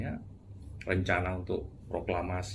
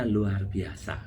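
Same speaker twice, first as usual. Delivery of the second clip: slow, stretched "luar biasa" as if in awe; awed, drawn out; much slower than usual. Shown as a demonstration. Showing how a friend sounds awed, slow and stretched. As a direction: draw out "luar biasa" slowly, marvelling. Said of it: "seolah-olah dia sedang mengagumi".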